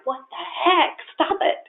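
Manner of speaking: amused pushback at husband; laughing protest. Retold or imitated. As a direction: laugh it off in mock outrage.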